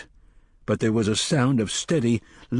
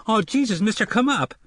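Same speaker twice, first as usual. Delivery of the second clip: terrified plea; 11 semitones higher than usual. A narrator's reading. Boy pleading with the gunslinger to climb out, terrified. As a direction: scream it in pure fright. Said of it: "Jake screamed".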